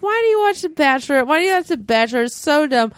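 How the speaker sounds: mildly mocking whine of disbelief; mimicked critics. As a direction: imitate nagging critics of the show. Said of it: "people that are like".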